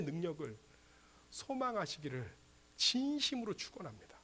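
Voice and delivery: very soft, earnest close; softly sincere benediction; hushed blessing. Real, not acted. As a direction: let the fervor fall away into a quiet wish. Drops to a hushed closing blessing.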